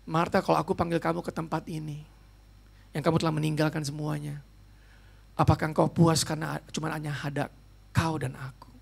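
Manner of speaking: a tender, quiet divine call; voice of the Holy Spirit. Acted. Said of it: "Roh Kudus". (suara Roh Kudus, lembut, pelan, rendah)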